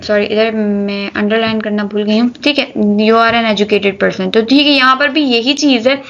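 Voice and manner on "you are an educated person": "You are an educated person" read out very slowly; slow dictation. Shown as a demonstration. Teacher slowly dictating an example sentence to the class. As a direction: dictate it word by word.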